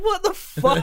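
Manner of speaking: loud high startled laugh; shocked. Retold or imitated. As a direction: yelp it in alarmed disbelief. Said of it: "And you're like".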